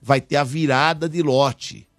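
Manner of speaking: upbeat announcer promo voice; radio ad read. Acted. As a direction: sell it like a radio spot.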